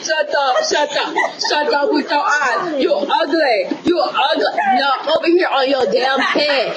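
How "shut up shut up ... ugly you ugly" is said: a laughing, slow parody of his insults; laughing while mocking his taunts; laughing mock quote. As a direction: mimic him through laughter, slow. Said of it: "That's all you can say".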